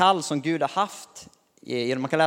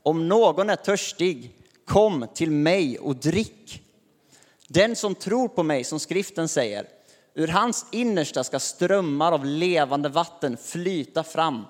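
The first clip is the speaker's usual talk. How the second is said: calling out; slower than usual. Acted. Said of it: "stod Jesus och ropade".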